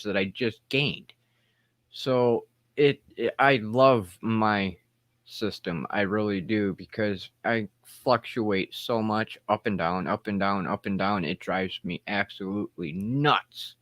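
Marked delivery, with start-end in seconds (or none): 1.9-13.8 dry-mouthed speech; talking with a dry mouth. Real, not acted. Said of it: "I'm getting a little bit of dry mouth".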